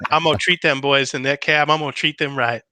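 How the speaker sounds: a hint of a campy Southern politician; Lindsey Graham voice. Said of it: "request for the Lindsey Graham voice".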